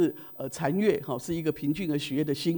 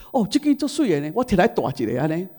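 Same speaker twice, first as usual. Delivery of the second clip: imitating mother; 5 dB louder than usual. Mother admiring the new watch.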